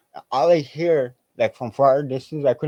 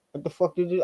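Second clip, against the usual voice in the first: retold outburst; 7 semitones higher, faster than usual. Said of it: "I said something mousy to him".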